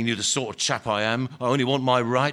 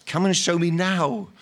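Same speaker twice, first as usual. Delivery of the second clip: laughter in his voice; 4 semitones higher, 3 dB louder than usual. A narrator's reading. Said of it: "with laughter in his voice".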